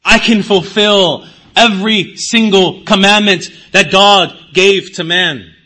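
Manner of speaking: loud, proud boast; loudly mocking a smug Pharisee; boastful self-righteous voice. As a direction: brag that you can keep every law. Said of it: "they say".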